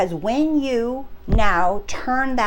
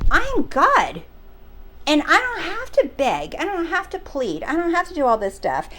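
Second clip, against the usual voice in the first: higher, insistent retold refusal; mildly defiant, pitched up; stubborn declaring; 5 semitones higher than usual. Subscriber refusing to beg or plead, stubborn declaring. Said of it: "I'm believing stubbornly".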